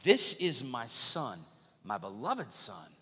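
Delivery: measured, solemn imitation of God speaking. God declaring his son from heaven, solemn voice of God. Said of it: "A voice from heaven said".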